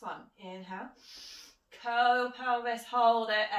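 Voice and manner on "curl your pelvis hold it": loud cue. Real, not acted. Instructor cueing the lift.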